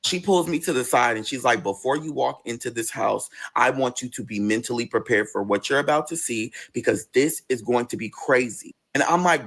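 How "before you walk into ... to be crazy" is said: low, grave aside; understated, measured caution in a lower voice; serious warning. Retold or imitated. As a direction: act out a cousin's warning, pitched down. Cousin's acted grave warning.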